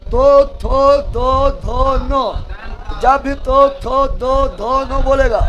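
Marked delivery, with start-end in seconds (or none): 0.1-2.2 तो थो दो धो नो slowly, tongue against teeth; dental sounds. Shown as a demonstration. Teacher showing tongue on teeth, slow dental तो थो दो धो नो. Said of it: "जीभ जो है दांत में टच करेगा". 3.4-5.0 तो थो दो धो नो with tongue touching teeth; dental sounds. Shown as a demonstration. Teacher explaining teeth contact, dental तो थो दो धो नो. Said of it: "जीभ जो है दांत में टच करेगा".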